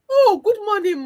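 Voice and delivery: high, startled greeting; sudden realization. Acted. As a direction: blurt it as it dawns on you. Assistant suddenly remembers greeting.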